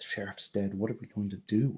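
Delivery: muttered below the breath. Narrator voicing servants who flock to and fro, muttering under breath. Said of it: "muttering below their breath".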